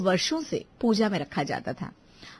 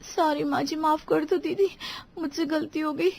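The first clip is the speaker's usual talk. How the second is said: high, meek apology; apologetic; 5 semitones higher than usual. Acted. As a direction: plead for forgiveness. Scolded daughter-in-law apologises to elders. (गिड़गिड़ाकर माफ़ी)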